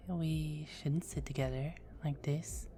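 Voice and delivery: soft teasing whisper; conspiratorial hush. Acted. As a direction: lean in and whisper it. Teasing vampire, moving closer.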